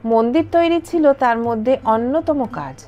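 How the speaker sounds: calm storytelling voiceover over music; documentary narration. A narrator's reading. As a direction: narrate the history evenly. (তথ্যচিত্রের ধারাভাষ্য)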